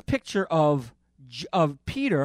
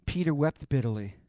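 softer sad repeat; 4 dB quieter than usual. Shown as a demonstration. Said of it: "repeated for emphasis".

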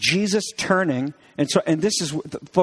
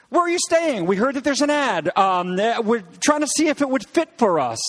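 apartment hunter; 6 semitones higher than usual. Acted. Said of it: "trying to look at an apartment".

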